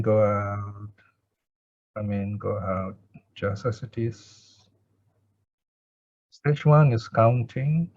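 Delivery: measured breath-counting with long pauses; guided meditation. Real, not acted. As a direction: guide each breath in and out, leaving space after it.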